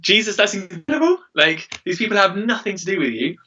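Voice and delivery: thrilled at the news, lightly voiced; excited. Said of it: "And I'm like".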